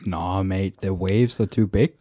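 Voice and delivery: badly faked Australian accent. Friend asked for an Australian, feeble Australian accent. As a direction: attempt a laid-back Australian accent. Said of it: "can you do a fucking Australian one?".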